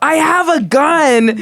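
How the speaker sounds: shrill, very high, very slow drawn-out shout. Retelling how she rolled the car window down: imitating someone shouting. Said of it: "she shouts out".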